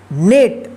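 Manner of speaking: नेट with the ई read as ए; pronunciation demo. Shown as a demonstration. Teacher showing pupils how to read नेट. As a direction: say नेट, the ई sounding as ए. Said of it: "इस ई का आप ए उच्चारण कीजिएगा".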